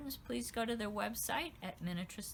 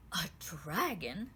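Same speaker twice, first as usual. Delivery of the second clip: surprised; 4 semitones lower, slower than usual. Acted. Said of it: "the queen exclaimed".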